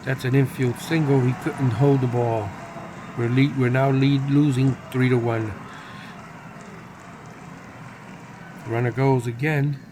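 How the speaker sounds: measured sportscaster call; announcer keeping listeners on the action; baseball play-by-play. Pretend. Calls the baseball game live.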